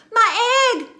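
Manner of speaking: high loud cry; joyful shout. A narrator's reading. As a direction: shout it out in joy. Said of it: "shouted Horton".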